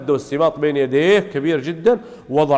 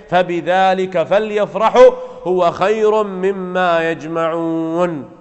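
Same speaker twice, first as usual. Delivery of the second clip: slow, drawn-out measured recitation; Quran recitation; much slower than usual. Acted. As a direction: recite the verse slowly, stretching the long vowels.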